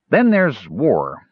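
slow, weighty warning; ominous. Acted. Cider warning the gnomes about war, slow and ominous. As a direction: let each word drop slowly like a dark omen. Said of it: "said Cider ominously".

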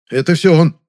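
a squeaky telltale voice; squeaked complaint. A narrator's reading. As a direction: tattle from behind cover. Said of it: "пискнул из-за угла Завадский".

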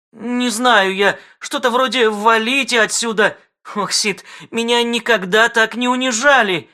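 aggrieved lament. Acted. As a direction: bewail the insult. Жена оскорблена.

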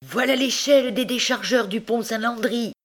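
high, excited announcement; excited high-pitched cry; triumphant schoolboy. A narrator's reading. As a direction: show off the prize in a high voice. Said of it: "criait l'écolier".

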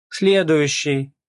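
loud, drawn-out call for the next one; slow shouted "Следующий"; shouting. A narrator's reading. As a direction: call out the queue to drown him out. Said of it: "закричала она".

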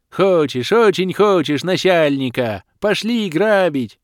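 high, loud, excited half-orc yell; eager shout. A narrator's reading. Half-orc Ishak jumps up and yells to his boss, excited. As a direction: burst out, dying to go rob.

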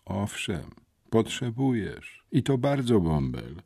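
calm, measured contradiction. A narrator's reading. Gang's messenger answers the boy's refusal, calmly. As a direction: answer his bluster calmly, unhurried. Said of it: "rzekł spokojnie Czupur".

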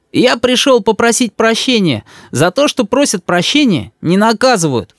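высокий детский голосок, с вызовом; мальчик беззаботно встревает; ребёнок. A narrator's reading. Рис оправдывается. (дерзкий детский голос)

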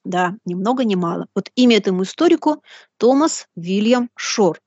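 usual speaking voice

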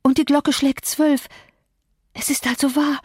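lightly voiced terror of a feverish woman; dread-struck Catherine. Catherine hears the clock strike twelve, lightly voiced dread.

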